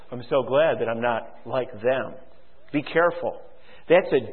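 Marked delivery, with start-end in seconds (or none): 0.1-2.1 Pharisee. Retold or imitated. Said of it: "like the Pharisee".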